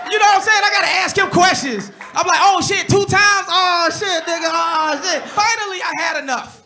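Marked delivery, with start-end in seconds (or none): 2.4-5.2 excited fanboy. Pretend. Fan gushing at Obama.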